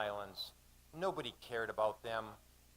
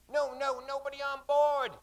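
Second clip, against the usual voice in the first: higher, louder shout to keep people off; 14 semitones higher, 8 dB louder than usual. Acted. Mate shouting at villagers to stay off the boat. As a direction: bark the warning at the crowd.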